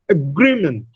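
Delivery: "Agreement" with the stress on GREE; weak first vowel, strong GREE in "Agreement"; stress on second syllable. Shown as a demonstration. Teacher models "Agreement" for students, stress on the second syllable. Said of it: "it is agreement".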